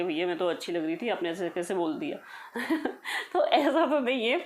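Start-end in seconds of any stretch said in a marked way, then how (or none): 0.0-2.2 a hint of pouting hurt, lower and softer; mock offended pout; mock sulk. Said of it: "मैं मुँह फुला के बैठ गई". 2.2-3.3 quiet breathy laugh; soft laugh. Real, not acted. Laughs after mock sulk.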